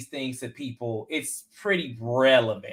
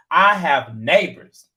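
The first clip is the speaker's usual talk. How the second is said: mock whisper; 6 dB louder, slower than usual. Retold quarrel, whisper measured.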